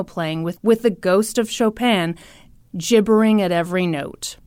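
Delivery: measured, emphatic reading aloud; deliberate recital with punched adjectives; dramatic column reading. A narrator's reading. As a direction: read out a scathing column, savouring each insult. Reads newspaper column aloud.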